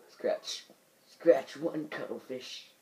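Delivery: lightly voiced old captain; a hint of an excited old man. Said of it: "the old man voice".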